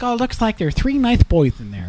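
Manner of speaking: high, soft lisping mock voice; mocking onlooker. Friend mimics people looking in on them, mocking lisp.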